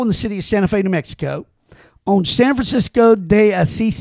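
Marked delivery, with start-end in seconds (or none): 2.3-4.0 San Francisco de Asis with a light Spanish accent. Shown as a demonstration. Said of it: "but I did it with an accent".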